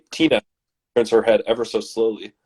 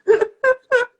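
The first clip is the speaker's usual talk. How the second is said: high mock scream in short bursts; piercing scream; 6 dB louder than usual. A narrator's reading. Narrator acting the woman's piercing scream, high mock shrieks. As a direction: imitate a very high, broken screaming. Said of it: "watch her piercing scream".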